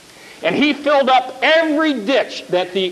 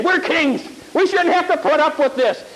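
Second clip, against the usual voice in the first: indignant kings; 5 semitones higher than usual. Acted. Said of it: "they march out in indignation".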